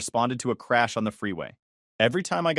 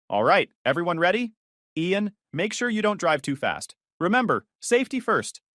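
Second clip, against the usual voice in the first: fussy mom; 5 semitones higher than usual. Acted. Fussing mom like tour guide.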